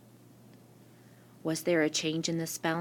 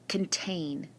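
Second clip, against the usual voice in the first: contain, with the second syllable accented and a long A; stress on second syllable; 4 dB quieter than usual. Shown as a demonstration. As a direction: say "contain" carefully, leaning on TAIN. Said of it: "the digraph is in the second syllable".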